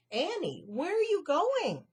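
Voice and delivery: loud, high call after her. Acted. Melissa calling after the fleeing Annie. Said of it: "called Melissa".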